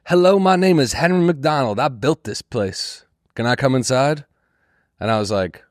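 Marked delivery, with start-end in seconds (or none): 0.0-4.2 lightly voiced old man, higher, with a slow middle; a hint of a polite old stranger asking to come in; old man's plea. Comic imitates the old man at the door asking to come inside, lightly voiced. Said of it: "And he goes".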